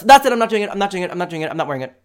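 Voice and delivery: a diva refusal that cools off; mock storming off.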